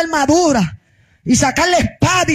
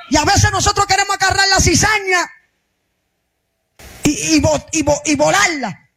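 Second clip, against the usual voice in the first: raised, insistent preacher's voice; fiery preaching; 5 semitones higher than usual. Real, not acted. Pastor rebuking churchgoers over petty grievances, fiery preaching. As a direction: drive it home to the congregation.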